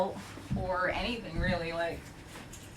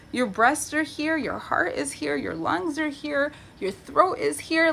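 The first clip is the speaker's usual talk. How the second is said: slow, pointed listing; 6 semitones higher than usual. Real, not acted. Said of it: "pointing out vulnerable chest areas".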